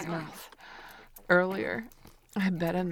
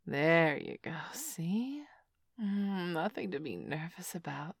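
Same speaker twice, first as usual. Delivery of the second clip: whispering. Acted. Whispered encouragement.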